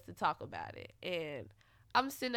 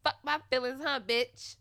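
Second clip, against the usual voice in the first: louder, sassier sarcastic jab; sassy sarcasm; 3 semitones higher, 5 dB louder than usual. Retold or imitated. Mocking his indifference to her feelings, a louder sassy jab. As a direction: throw the shade harder.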